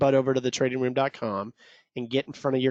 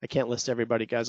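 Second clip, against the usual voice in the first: out of breath; 2 semitones lower, faster than usual. Real, not acted. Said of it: "I'm out of breath".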